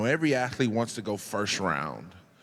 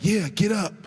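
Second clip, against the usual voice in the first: raised, louder mock trash talk; cocky taunt; 8 semitones higher, 4 dB louder than usual. Rookie taunting KG after a shot, cocky taunt. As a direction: talk smack to the veteran.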